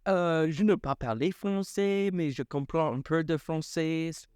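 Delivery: plain speech in French with a faint French lilt; casual spoken French; light French. Pretend. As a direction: answer in French, mildly accented. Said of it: "a French accent".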